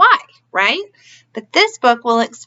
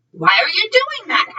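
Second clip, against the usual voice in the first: higher voiced child; curious boy; 9 semitones higher than usual. A narrator's reading. Chipito asks Ramon in a higher child voice. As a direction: ask it like an eager little boy. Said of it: "asked Chipito".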